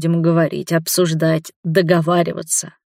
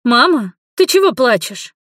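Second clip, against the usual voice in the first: higher, louder alarmed daughter's call; a daughter startled to find her mother crying, higher and louder; worried young woman; 7 semitones higher, 5 dB louder than usual. A narrator's reading. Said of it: "Беспокойный женский голос". (встревоженный, выше и громче)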